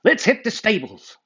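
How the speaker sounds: high, bright cowboy call; rally the campers to ride. Acted. Cowboy Dan speaking.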